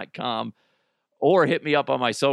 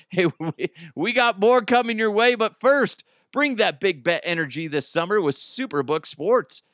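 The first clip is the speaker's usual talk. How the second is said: upbeat, slightly raised sponsor read; 3 semitones higher than usual. Acted. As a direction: sell the promo to listeners.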